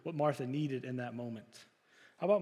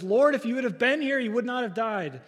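much higher, loud, raw lament; 7 semitones higher, 9 dB louder than usual. Acted. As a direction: cry it out as a grieving sister. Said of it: "Mary laments".

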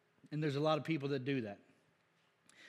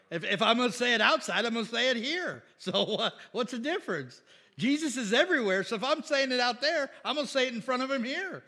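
loud, high-pitched preacher's insistence; emphatic self-defence; 7 semitones higher, 6 dB louder than usual. Real, not acted. Preacher defending his joke to the congregation, loud and insistent. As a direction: argue your case at raised pitch and volume.

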